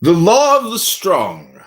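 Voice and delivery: slow, grand pronouncement fading to a whisper; mock-solemn recitation of the law of the strong; solemn decree. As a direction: intone it like an ancient law.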